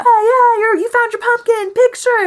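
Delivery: very high, loud mock cheer; imitating overeager date. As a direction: pop up gushing in a piercing high voice. Imitating date popping up again.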